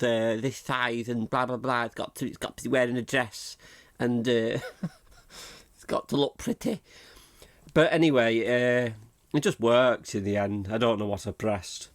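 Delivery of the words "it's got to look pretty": higher, sing-song mock fussiness; prissy little rise on pretty. Host mocks the website's picky photo rules. Mocking fussy upload rules.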